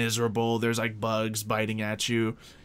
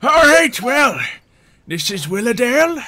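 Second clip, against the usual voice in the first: high, loud, friendly NPC voice; a chipper villager greeting travellers; the game master voicing a cheerful local; cheery NPC; 12 semitones higher, 10 dB louder than usual.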